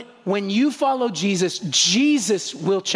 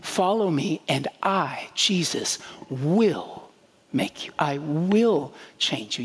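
gentle scripture reading; 5 semitones lower, slower than usual. Shown as a demonstration. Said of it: "experience the relief of these words".

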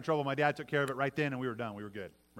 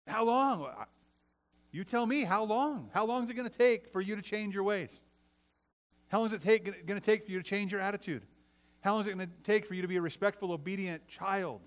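higher-pitched, pointed questioning; acted-out parent pressing the point; challenging parent; 4 semitones higher than usual. Father turning the question back on his kids, challenging.

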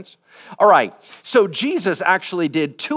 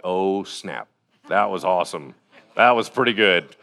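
impressed Jesus; 7 semitones lower than usual. Retold or imitated. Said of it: "And he was like".

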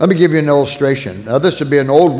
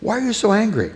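higher, softer, concerned friend; calling Ted; 7 semitones higher, 4 dB quieter than usual. Retold or imitated. A passerby asks Ted why he is so angry, higher and softer. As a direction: gently ask why he's angry. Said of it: "you said".

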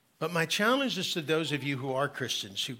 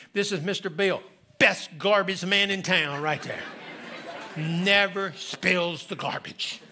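put-on proud little boy; 4 semitones higher, 4 dB louder, slower than usual. Boy introducing garbage man proudly.

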